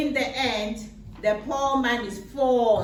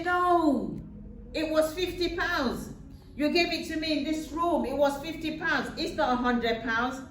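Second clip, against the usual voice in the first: higher, insistent protest of an innocent man; a poor man protesting, a bit higher; pleading poor man; 5 semitones higher than usual. Retold or imitated. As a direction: plead your case, voice pitched up.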